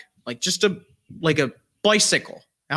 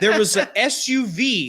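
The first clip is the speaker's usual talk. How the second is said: laughing while telling; 7 semitones higher, 3 dB louder than usual. Real, not acted. Teller laughs while revealing twist.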